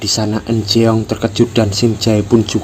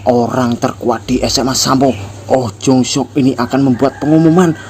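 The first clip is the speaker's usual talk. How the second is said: higher, louder call to the whole class; loud announcement; 3 semitones higher than usual. Acted. Jung declares to the classmates, loud and high. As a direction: announce it to the room like a threat. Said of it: "Lalu Jung berkata keras".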